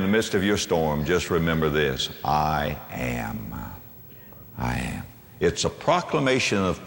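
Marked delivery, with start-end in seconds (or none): 2.2-5.0 low, soft and slow; a reverent, hushed I am; hushed awe. Real, not acted. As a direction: whisper it like holy ground. Hushed proclamation in sermon.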